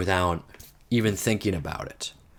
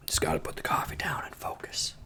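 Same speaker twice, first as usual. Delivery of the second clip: hushed note to self; low, barely voiced self-talk; muttered aside; 3 semitones lower, 8 dB quieter than usual. Real, not acted. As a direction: say it under your breath, half whispered. Muttering to self during puzzle.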